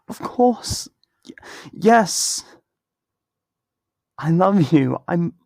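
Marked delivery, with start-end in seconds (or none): 0.1-2.4 hushed whisper on "Of course" and "Y-, yes"; whispered, stumbling yes; whispered confession. Acted. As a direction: barely voice the yes, as if it slips out. Emotional confession between friends.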